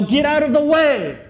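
high, loud warning shout; urgent yell. Pretend. A bystander warns someone in the street, shouting. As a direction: yell it like a car is bearing down. Someone yells at car danger.

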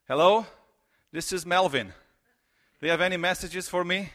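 cheeky prank. Retold or imitated. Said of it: "let me show you what means really annoying".

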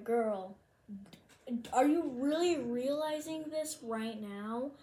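slow, pointed disbelief; mock disbelief. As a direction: draw it out, mildly exasperated. Acted disbelief, said in her mind.

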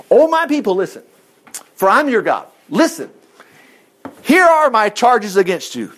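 mildly declamatory divine summons; God addressing his people. Acted. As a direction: read it as God calling court, opening high. Reads God's charges as God.

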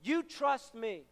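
soft, sinking words of quiet authority; God speaking. Retold or imitated. God answering an upset young believer, quietly firm. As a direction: say it softly, as a settled answer to the heart. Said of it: "all I remember him saying is".

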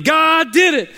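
high and loud, laughing through the praise; the woman laughing her praise to the atheist. Acted. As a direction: talk right over him, laughing with joy. Woman cuts off the neighbour.

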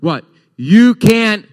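high, loud, slow challenge; shouting the courtroom quote at the congregation; movie line shout. Retold or imitated. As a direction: bark the famous line at them. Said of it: "What does the saying say?".

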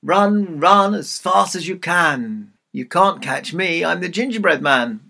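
calling out. Acted. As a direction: chant the rhyme teasingly. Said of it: "And he called out".

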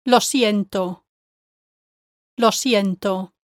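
LO SIENTO run together with no gap; joined-up words. Shown as a demonstration. Teacher modelling the second word group, joined-up LO SIENTO. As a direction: say LO SIENTO as one unbroken group. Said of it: "should be said with no gap between them".

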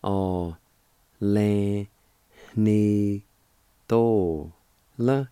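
"A, le, ni, to, la" with a short pause after each syllable; teacher breaking "A, le, ni, to, la" into syllables. Shown as a demonstration. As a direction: sound out "A, le, ni, to, la" one piece at a time. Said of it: "It's pronounced like this".

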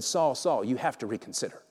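hushed, sinking low; very soft, insistent murmur; haunting inner voice. Acted. Nagging voice in Saul's head, hushed. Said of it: "had to quiet the voice".

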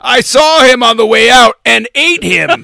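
loud booming monster voice; Armus voice. Pretend. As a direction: boom it out like a goo monster. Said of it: "Armis, are you looking for representation?".

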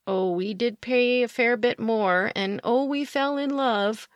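imitating sheepish pet owners, pitch lifting at the end; mock sheepish. Pet owners admitting to a rescuer what they paid, mock sheepish. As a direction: own up sheepishly, as if quoting someone else. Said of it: "they looked at me sheepishly and said".

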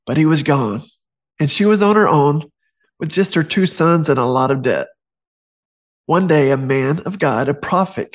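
storybook narration read aloud; gentle storyteller reading from his book; story reading. Acted.

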